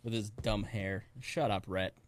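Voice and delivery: muttered aside. Real, not acted. Mocking aside to absent Rhett.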